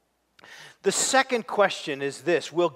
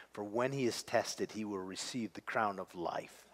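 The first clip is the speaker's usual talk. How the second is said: quiet faithful voice; 5 semitones lower, 7 dB quieter than usual. Acted. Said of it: "one who says".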